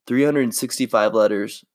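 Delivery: lightly voiced movie heartthrob, earnest; Ryan Gosling impression. Friends said he sounds like Ryan Gosling, so he reads romantic lines as him. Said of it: "Okay, here we go".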